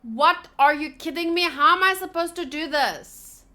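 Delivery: exasperated. Real, not acted. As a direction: vent at a puzzle that won't cooperate.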